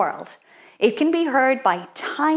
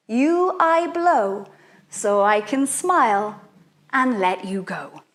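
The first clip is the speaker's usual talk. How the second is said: softly recited spell. Shown as a demonstration. Teacher reciting the bubble spell softly to children. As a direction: recite it gently, letting worries go. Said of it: "It goes".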